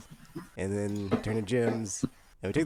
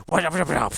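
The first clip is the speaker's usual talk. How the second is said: mock sound effect; 4 semitones higher, 6 dB louder, faster than usual. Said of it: "he did the thing where he".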